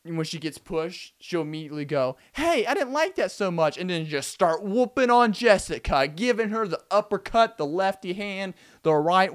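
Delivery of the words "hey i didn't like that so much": high-pitched, mock-angry outburst; hot reaction. Stacy snaps at Jessica after the push, mock angry. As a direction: fire back loud and high, hammed-up. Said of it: "using the hot method".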